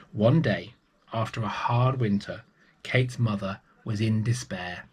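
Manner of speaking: put-on lively read-aloud voice for children; storybook narration. A narrator's reading. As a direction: tell it like a bedtime story. Storyteller reading a picture book.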